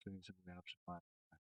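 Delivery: choppy, dropping-out audio; broken-up voice over a bad line; bad connection. Real, not acted. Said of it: "You sound really choppy".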